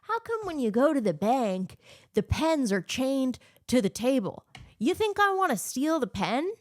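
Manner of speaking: Seinfeld impression. Mocking Seinfeld's comedy with a light, high impression. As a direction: mimic a mild Seinfeld observational bit. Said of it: "the comedy that he's doing".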